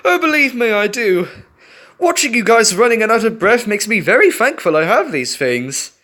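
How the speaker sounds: high laugh, then lightly amused words; falcon laughing at the panting friends. A narrator's reading. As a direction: chuckle through the reply. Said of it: "Perry laughed".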